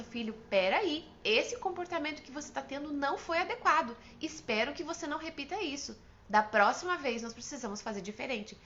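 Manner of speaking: firm, measured correction. Shown as a demonstration. Parent correcting a son's behaviour, firm voice. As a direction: correct the child firmly without yelling. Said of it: "é necessário usar um tom de voz firme".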